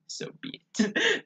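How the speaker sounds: very high, slow squeak; mock Cujo in a silly high voice; squeaky high voice. Cujo refusing Donna.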